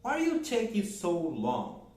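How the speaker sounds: slow, careful English question for students; slow teacher demo; slow model question. Shown as a demonstration. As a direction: say it slowly for learners. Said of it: "Por exemplo".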